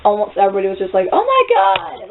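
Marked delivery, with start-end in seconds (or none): 1.1-2.1 high, drawn-out mock shriek; freaked-out gasping cry. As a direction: imitate a horrified crowd. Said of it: "everybody was freaking out".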